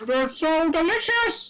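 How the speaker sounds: high, slow gleeful character voice; hammed-up delight; relishing weirdo. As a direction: savour it in a high silly voice. Steve relishing socks.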